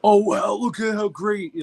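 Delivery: high, slow fake amazement; drawn-out, hammed-up wonder; mock overhyping. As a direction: imitate a gushing, biased commentator. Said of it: "he doesn't, like, over".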